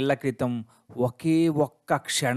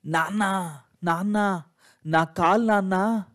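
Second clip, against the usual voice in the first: frightened crying out; 5 semitones higher than usual. A narrator's reading. Child crying to her father in fright over her leg. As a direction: panic at the lost leg. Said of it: "అని గట్టిగా అరిచా, ఏడ్చా".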